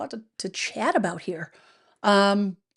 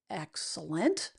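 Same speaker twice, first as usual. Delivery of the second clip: ordinary talk, nothing marked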